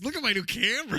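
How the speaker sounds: high, loud camera brag; eager show-off, hammed up; mock show-off voice. Quoting the favourite line.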